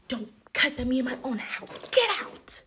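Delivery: rising to a high, loud "get out"; mock yell. Imitating the friend ordering her out of the apartment, yelling. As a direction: shout her out of the house.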